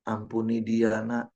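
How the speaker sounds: soft, slow fatherly advice; understated tender voice of God; gentle God voice. Retold or imitated. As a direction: speak kindly like a patient father. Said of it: "Tuhan cuma ngomong gini".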